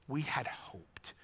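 slow and soft; a hushed, heavy confession; quiet lament. Shown as a demonstration. Pastor inviting the congregation to a soft lament. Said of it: "Who of us does not have something to say".

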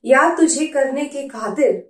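measured verse with pauses between lines; poem recitation. Acted. Reading favourite poem to viewers, measured poetry recitation. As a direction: recite it line by line, letting each one land.

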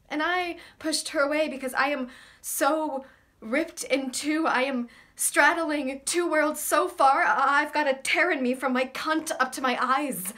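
anguished confession. Acted. Confessing why they pushed a lover away, worked-up. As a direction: let the torn feeling build and spill out.

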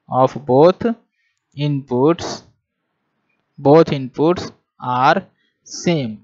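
each word drawn out slowly for note-taking; slow classroom dictation with pauses. Acted. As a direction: dictate it word by word so students can write.

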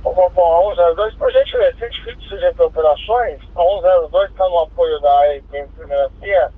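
crackly two-way radio transmission; squelchy handheld radio; police radio. Real, not acted. Patrol reports over radio.

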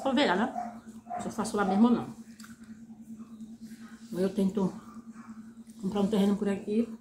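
chewing while talking; speaking around food; mouth full. Real, not acted. Seen 3: Puts noodles in mouth at 1.0, chews while speaking after.

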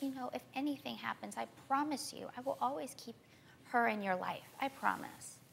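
softly imitating a comforting promise; soft reassuring promise. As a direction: lightly voice her quiet reassurance. Retelling the adoptive mother's promise.

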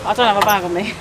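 talking around a phone in the mouth; phone held in teeth. Real, not acted. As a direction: speak with the phone clamped in the teeth. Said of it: "this is why I carry my phone in my mouth".

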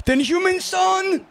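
high, slow drawn-out call; excited build-up. Real, not acted. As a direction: stretch the name in anticipation. Building up a goal.

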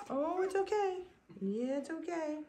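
high cooing reassurance. Real, not acted. Breeder reassures puppy she picks up, high soothing coo. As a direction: comfort a little puppy in a high voice.

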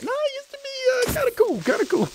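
squeaky high retort; replying to a friend in a squeaky voice; mock high voice. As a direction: answer in a silly high voice. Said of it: "I'm like".

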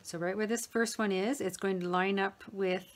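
talking with a pin in her mouth; mouth full. Real, not acted. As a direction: speak around a pin held in the lips. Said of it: "sorry, I got a pin in my mouth again".

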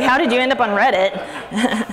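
slow, amused question with a laugh; laughing mock question. Mocking a Reddit commenter, slow and laughing. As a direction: tease the commenter through laughter.

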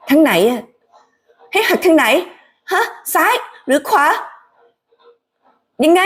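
panicked at the wheel, asking left or right; frantic questions. Acted. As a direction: Grace flustered while driving. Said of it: "ลองคิดถึงเสียงของ Haley".

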